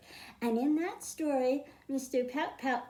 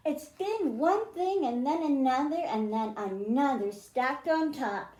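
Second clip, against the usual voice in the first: lilting read-aloud, rhymes and all; storybook reading. A narrator's reading. Teacher reading a rhyming picture book to children, lilting read-aloud. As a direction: read it to a class of kids, rhyming.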